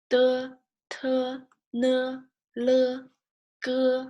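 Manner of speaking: every syllable on the same high level note; brisk syllable drill. Shown as a demonstration. Teacher running through learned sounds all together, high even drill. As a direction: recite the sounds evenly, high, with small gaps. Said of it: "do a little bit faster all together".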